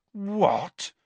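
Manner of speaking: high, sharp incredulous what; can't believe his ears; disbelief. Acted. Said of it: "said Ron in disbelief".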